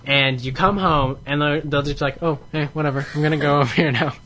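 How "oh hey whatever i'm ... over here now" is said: cat voice. Pretend. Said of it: "That's my cat voice".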